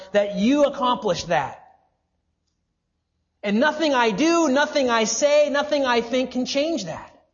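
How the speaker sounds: loud, emphatic sermon delivery; impassioned preaching. Real, not acted. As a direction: drive the point home to the congregation with force. Preaches at full force.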